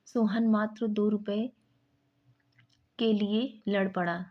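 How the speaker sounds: मात्र lifted and pressed; stress on मात्र. Shown as a demonstration. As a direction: hit मात्र before दो रुपए. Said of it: "मात्र यहाँ पर बल लग रहा है".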